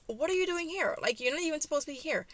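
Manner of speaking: high-pitched, rushed mock indignation; indignant challenge. Daughter confronts father for showing up, indignant.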